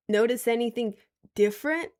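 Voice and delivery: mock-coy reveal, punched up; proud show-off. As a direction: act out showing off a trick. Acting out showing off interlocked piercings.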